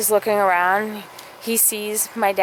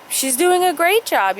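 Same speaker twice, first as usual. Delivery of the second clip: boss voice; 9 semitones higher than usual. Retold or imitated.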